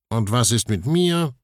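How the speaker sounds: lightly offended little tin man. Acted. Herr Spiegelei feels left out, lightly offended. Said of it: "fragt Herr Spiegelei beleidigt".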